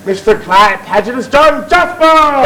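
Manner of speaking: announcer shout. Shown as a demonstration. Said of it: "Last chance".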